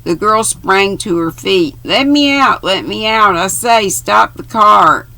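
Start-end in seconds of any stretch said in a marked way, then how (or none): 1.8-5.1 urgent plea. A narrator's reading. Girl begs to leave car.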